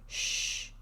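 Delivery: whispered shush. A narrator's reading. Robber silencing the children, whispered shush. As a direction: hush them with a breathy whisper. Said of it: "he put up his hand and said".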